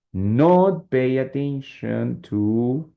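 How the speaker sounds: slow, drawn-out phrase; emphasizing. Shown as a demonstration. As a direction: stretch the phrase to single it out. Teacher points out the emphasized part.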